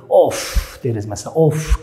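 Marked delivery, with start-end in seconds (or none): 0.1-0.8 exasperated "off" with a long trailing f; sighed "off". Shown as a demonstration. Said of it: "Türkçe'de deriz ya". 1.3-1.8 "off" with a long airy f; demonstrated sigh. Shown as a demonstration.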